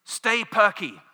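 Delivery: high, loud American pep; perky American. Acted. Voicing the American story to the congregation, perky and loud. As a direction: push it out with cheery American zeal. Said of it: "here's the American story".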